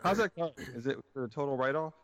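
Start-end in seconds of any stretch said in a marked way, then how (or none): 0.0-0.5 high mock voice. Co-host asking in mock voice.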